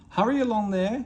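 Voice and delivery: high, loud lordly order; bossy call. Acted. Percy orders the trucks to hurry, high and loud. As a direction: lord it over the trucks.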